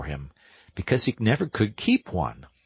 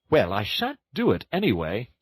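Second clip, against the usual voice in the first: higher, indignant outburst; excited; 4 semitones higher than usual. Acted. Toad refuses his friends' orders, excited cry. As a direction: Toad flaring up. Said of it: "cried Toad, getting excited".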